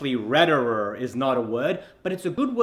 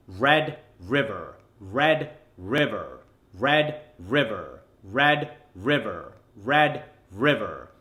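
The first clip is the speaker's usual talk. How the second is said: slow, evenly repeated American accent; American r's, each word falling and set apart; American accent drill; 3 semitones lower, slower than usual. Shown as a demonstration. Coach drilling five times in a slow American accent. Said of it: "in an American accent five times".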